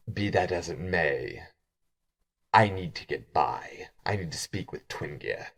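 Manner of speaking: low, hushed voice; low reply sinking toward a whisper; restrained irritation. Acted. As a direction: keep it low and under the breath. Cross changeling answers the boastful guide.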